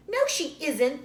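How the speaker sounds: loud, high contradiction; childish retort. A narrator's reading. Other Laura contradicting Laura, loud childish retort. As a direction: snap back at her. Two girls arguing over babies.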